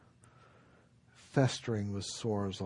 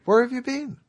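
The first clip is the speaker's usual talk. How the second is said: much higher, loud desperate cry; exasperated outcry; 14 semitones higher, 12 dB louder than usual. Acted. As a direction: cry out after twelve years of waiting. Frustrated monk confronts Maitreya.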